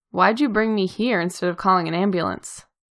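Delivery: ordinary delivery, nothing marked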